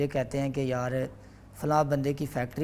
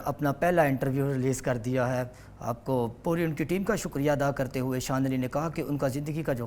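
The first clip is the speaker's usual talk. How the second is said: news anchor voice. Retold or imitated. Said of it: "کسی سا anchor کی آواز نکالو".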